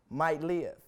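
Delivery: ordinary talk, nothing marked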